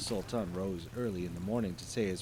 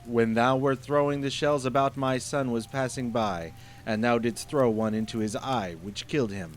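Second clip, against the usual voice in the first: menacing genie; 3 semitones higher, 7 dB louder than usual. Acted. Genie pronounces sentence.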